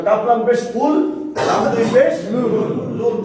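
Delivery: very slow, each sound of কাপ লাম পেশ কুল separated; slow spelling out. Shown as a demonstration. Teacher to the class, slowly spelling the word. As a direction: spell it out syllable by syllable. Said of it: "দেখেন, তাহলে এখানে আমরা আসবো".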